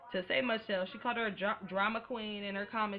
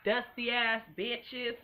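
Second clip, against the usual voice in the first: slow drawl; much slower than usual. Shown as a demonstration. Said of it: "it's all in the delivery".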